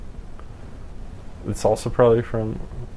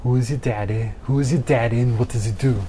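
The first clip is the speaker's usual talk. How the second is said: voice changer. Pretend. Plays with his voice changer.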